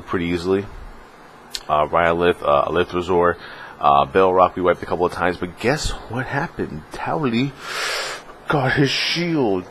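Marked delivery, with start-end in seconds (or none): 5.6-9.6 teasing big reveal. Real, not acted. Drumroll reveal of the loot.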